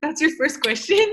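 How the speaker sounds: incredulous retort, retold playfully; mock disbelief. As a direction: play up being unimpressed by the question. Retort to the maple syrup question.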